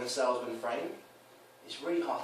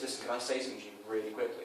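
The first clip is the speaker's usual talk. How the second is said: quick, softer, serious opener; 5 dB quieter, faster than usual. Shown as a demonstration. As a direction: say it briskly and straight, no joke. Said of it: "I'm very serious".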